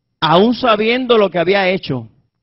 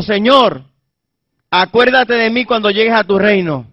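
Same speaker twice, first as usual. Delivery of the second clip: fervent plea; 4 semitones higher than usual. Acted. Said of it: "que le dijo".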